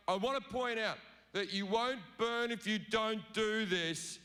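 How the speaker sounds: a hint of a smug, menacing deity; petty God making demands. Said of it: "He pipes up again".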